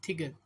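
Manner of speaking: "थिगत" begun with a breath-released T; aspirated TH. Shown as a demonstration. Teacher easing pronunciation for learners, "थिगत" with aspirated TH. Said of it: "लिख लें टीएच".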